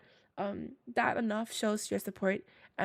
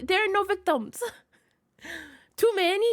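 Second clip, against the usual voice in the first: laughing protest; 7 semitones higher, 5 dB louder than usual. Real, not acted.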